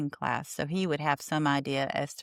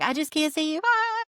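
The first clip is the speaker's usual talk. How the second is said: mock dramatic wail; 11 semitones higher than usual. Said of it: "And she's like".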